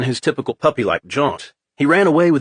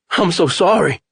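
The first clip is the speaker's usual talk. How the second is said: distraught apology; 6 semitones higher, 3 dB louder than usual. A narrator's reading. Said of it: "the guy kept saying".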